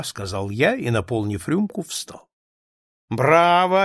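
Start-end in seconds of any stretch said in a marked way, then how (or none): 3.1-3.8 high, loud cry of approval; shouting bravo. A narrator's reading. Aunt applauds niece's toast with a loud cry. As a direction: call it out across the table. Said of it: "опять захлопала".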